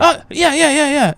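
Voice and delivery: high, loud imitated babble; mock heckler reply. Rowdy homie brushing off the comic on stage, high mock holler. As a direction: holler back as an oblivious rowdy friend.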